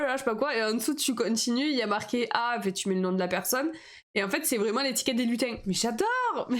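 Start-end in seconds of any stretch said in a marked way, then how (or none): 5.6-6.6 real thrill over the stickers; gushing. Real, not acted. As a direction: squeal "Mais j'adore" with delight. Gushing over kitsch Christmas stickers.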